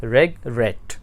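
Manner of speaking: रेगरेट split, weight on रेट; soft रेग, pause, firm रेट; stress on last syllable. Shown as a demonstration. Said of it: "उस पे ज़ोर ज़्यादा है".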